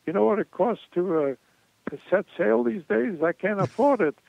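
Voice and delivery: imitating a Jewish comic complaining in a Jewish accent. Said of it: "With a Jewish accent".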